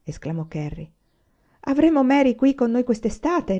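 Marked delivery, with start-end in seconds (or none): 1.6-3.6 brighter, higher and louder reply; cheerful. Acted. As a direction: answer happily. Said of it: "rispose Laura allegramente". (risposta allegra, più alta e forte)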